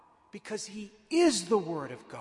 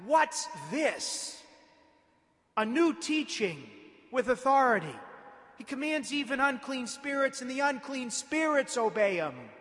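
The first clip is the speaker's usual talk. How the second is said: higher-voiced retelling of the crowd's wonder; amazed; 5 semitones higher than usual. Preacher retelling the synagogue crowd's reaction, amazed. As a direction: marvel aloud, lightly acting the crowd. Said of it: "That amazed the crowd even further".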